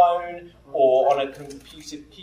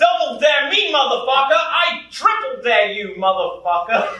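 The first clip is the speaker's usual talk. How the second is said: mock defiance; 4 semitones higher than usual. Acted escalating dare, answering back.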